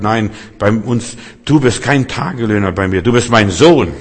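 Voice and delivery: the father's firm answer, rising to a loud close; father's reply. Retold or imitated. Father tells his returning son he is no hired hand, loud and firm. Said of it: "Der Vater sagt".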